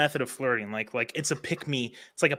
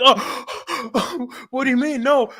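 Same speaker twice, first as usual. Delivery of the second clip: high gasping mock surprise; high, startled mock protest; mock shocked girl; 12 semitones higher, 6 dB louder, much slower than usual. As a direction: gasp like she's caught out. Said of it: "They're gonna be like".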